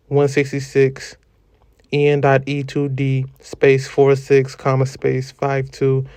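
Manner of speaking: spelling out every comma and period; dictating. Acted. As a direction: read it like dictation to a typist. Reads out citation with punctuation.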